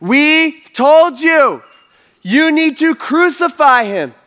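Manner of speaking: loud, high, slow demand; insistent crowd. Retold or imitated. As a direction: hammer each word out as an angry crowd. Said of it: "And they all answered".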